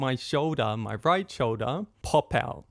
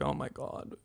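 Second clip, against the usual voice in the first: breathy whisper; 8 dB quieter than usual. Retold or imitated. Begging the hospital staff.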